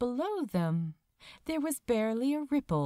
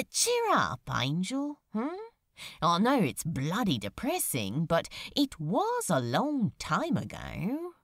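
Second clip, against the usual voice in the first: lightly voiced demon. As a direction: nudge him out of his gloom, half teasing. Demon teasing his sad friend.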